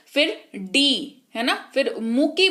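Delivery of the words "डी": slow "डी" as the second beat; isolated syllable. Shown as a demonstration. Teacher showing the next mouth movement, "डी" alone and drawn out. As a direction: stretch "डी" out on its own. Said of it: "मुंह का जो movement हुआ".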